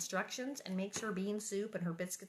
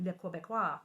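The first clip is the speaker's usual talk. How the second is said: a light Quebecois French lilt; Quebecois accent. Shown as a demonstration. Showing viewers how the Quebecois sound, light Quebecois accent. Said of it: "who talk like this".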